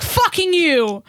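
high, drawn-out mock curse in broken English; imitating mom's broken English. Daughter imitating mom cursing a driver, high, slow broken English. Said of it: "She's like".

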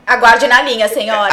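loud hold-line operator voice; phone menu voice. Pretend. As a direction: announce it like a call centre recording. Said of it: "vou botar a musiquinha". (voz de atendimento telefônico)

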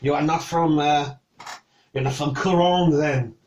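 put-on suspicious French accent. Cook checks who sent the knight, French accent. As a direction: question him warily in a French accent. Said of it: "you can do a French accent".

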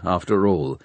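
plain reading voice

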